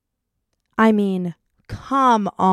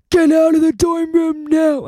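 retold shout; 7 semitones higher, 5 dB louder than usual. RA yells at her in dorm.

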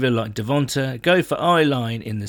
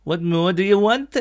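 put-on higher, self-consciously terrible Welsh accent; bad Welsh accent; 6 semitones higher than usual. Reading out a listener's comment, in a terrible Welsh accent. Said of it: "that's a terrible Welsh accent".

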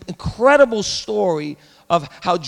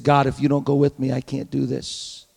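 humble prayer; 6 semitones lower, 6 dB quieter than usual. Pretend. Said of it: "he said".

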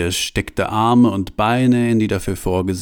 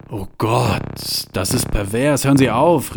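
called out; 3 semitones higher than usual. Acted. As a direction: yell to stop the machine in disgust. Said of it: "rief Franz".

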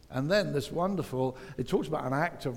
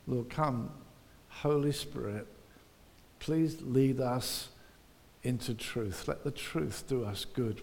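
pastor praying gently before the sermon; prayer; 3 semitones lower than usual. Acted. Leads a prayer.

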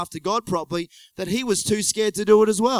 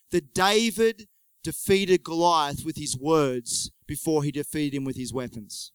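slow emphasis; 3 semitones lower than usual. Real, not acted. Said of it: "remember this".

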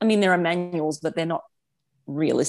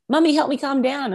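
imitating crying child; 8 semitones higher than usual. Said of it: "she's crying, like".

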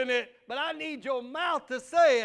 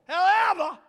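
higher, louder pulpit however; preacher voice; 8 semitones higher, 10 dB louder than usual. Shown as a demonstration. Pastor repeats however in his preacher voice, louder. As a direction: punch however like a sermon. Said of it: "that's my preacher voice".

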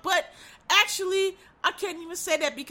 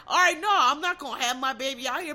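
quoting his refusal; 3 dB louder than usual. Retold or imitated. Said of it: "and you told her".

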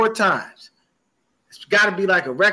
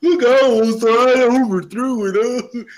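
lightly voiced giggling teammate, higher; mocking giggly teammate; 4 semitones higher, much slower than usual. Mocking the teammate who giggles after a bad throw, light put-on voice. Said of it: "come to the sideline and giggle and laugh".

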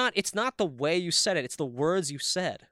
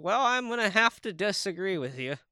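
higher-pitched, mock-polite Minnesotan accent; 4 semitones higher than usual. Showing how Minnesotans say disagree, imitation accent. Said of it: "Minnesotans say disagree more".

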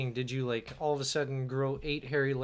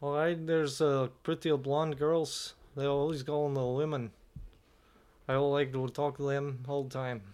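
bad Swedish accent; 4 dB quieter than usual. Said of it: "a Swedish accent".

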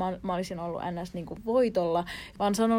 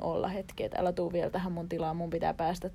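cool detachment. Acted. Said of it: "jos mä oon, niinku, kylmä".

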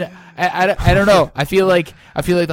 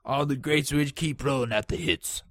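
lightly voiced mock Parisian, softer; attempted Parisian voice; 5 dB quieter than usual. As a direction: keep up a strained Parisian put-on voice. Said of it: "I can't do that voice much longer".

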